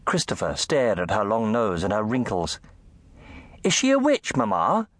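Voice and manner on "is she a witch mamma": high, loud blurted question; loud child's question. Acted. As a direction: blurt it out loudly. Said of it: "he asked loudly".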